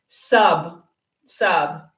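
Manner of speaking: Sub said crisply, twice; short form demo. Shown as a demonstration. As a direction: model the clipped word Sub for copying. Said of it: "So the teacher will do a substitution".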